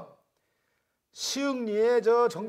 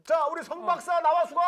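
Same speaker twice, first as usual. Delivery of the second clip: calling out; 3 semitones higher than usual. Acted. Calling guest onto show.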